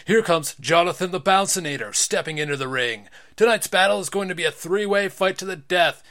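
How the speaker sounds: wrestling announcer. Acted. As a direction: call the entrance to the crowd. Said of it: "That's the announcer's job".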